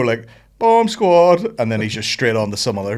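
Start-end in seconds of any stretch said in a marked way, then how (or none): 0.6-1.5 high, loud shout of the name; a boy thrilled at the new video; excited kid announcing. Retold or imitated. Son spotting his favourite show, excited high shout. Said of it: "he'd just go".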